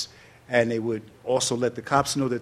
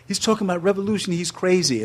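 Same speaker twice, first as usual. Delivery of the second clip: alarmed thought; 7 semitones higher than usual. Retold or imitated. Retold thought about Bobby Seale.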